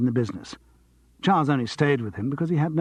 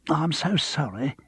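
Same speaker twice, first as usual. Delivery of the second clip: a touch higher, eager apologetic voice; slightly raised fussy tone; lightly voiced pianist; 3 semitones higher than usual. Pianist apologizing to Charles, lightly voiced eager.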